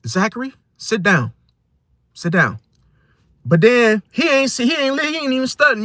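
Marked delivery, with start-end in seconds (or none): 0.1-2.6 calm, unforced parental instruction. Shown as a demonstration. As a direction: say it calmly, without real insistence. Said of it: "you say it in a calm voice".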